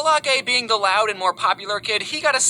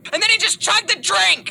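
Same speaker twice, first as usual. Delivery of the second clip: excited shout; 10 semitones higher than usual. Retold or imitated. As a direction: shout the punchline. Climax of story, shouted.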